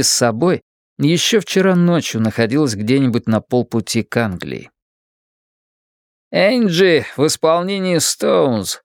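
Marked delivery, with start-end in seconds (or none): 6.3-8.8 cracked radio voice. Acted. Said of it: "надтреснутый голос из радиоприёмника".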